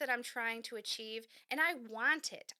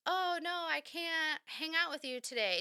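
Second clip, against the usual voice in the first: evasive friend; 6 semitones higher than usual. Retold or imitated. Friend making an excuse.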